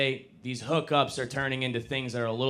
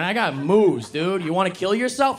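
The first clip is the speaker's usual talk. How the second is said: mock pep talk; 9 semitones higher, 8 dB louder than usual. Mock bro self-help pep talk.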